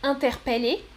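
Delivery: interpeller as "in-ter-pè-lé"; second variant. Shown as a demonstration. Teacher offers choice two, interpeller with open È. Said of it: "trois prononciations possibles".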